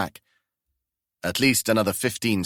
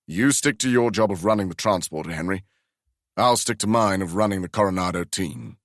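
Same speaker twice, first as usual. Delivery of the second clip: without animosity. Acted. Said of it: "said without animosity".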